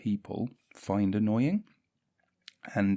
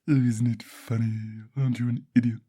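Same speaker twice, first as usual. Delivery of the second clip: self-mocking. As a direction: sneer at yourself. Mocking himself in odd voice.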